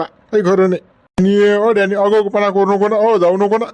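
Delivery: put-on old friend begging Danny not to leave; pleading old man. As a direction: beg him not to go.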